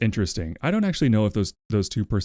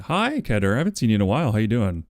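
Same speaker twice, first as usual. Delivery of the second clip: mock Irish accent; faster than usual. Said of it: "That didn't sound anything Irish".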